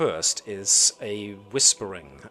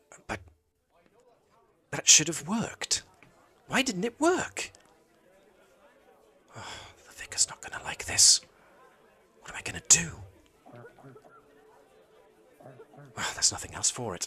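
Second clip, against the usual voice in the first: soft, slightly higher-pitched voice; 6 semitones higher than usual. Voicing a worried acolyte whose spell failed: soft voice of the acolyte. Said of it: "the soft voice of the acolyte going".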